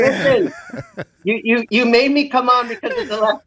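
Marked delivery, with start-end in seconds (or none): 0.0-1.0 calling out. Real, not acted. Dad joins the podcast, high call for attention. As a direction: cut in and grab the room. Dad demands the floor on camera.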